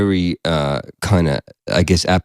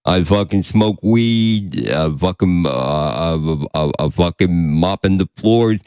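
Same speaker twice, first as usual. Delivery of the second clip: apathetic Bigfoot voice; 3 semitones lower, slower than usual. Retold or imitated. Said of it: "Bigfoot impression".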